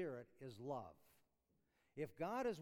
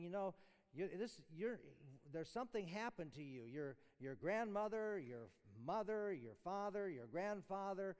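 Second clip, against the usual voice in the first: earnest rebuke; 4 semitones higher than usual. Retold or imitated. Voicing the apostle rebuking church.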